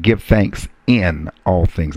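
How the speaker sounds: "Give thanks in all things" slowed, with GIVE leaned on; emphasized. Shown as a demonstration. Preacher stressing the point to his congregation, slow and weighty. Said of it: "Let me emphasize that".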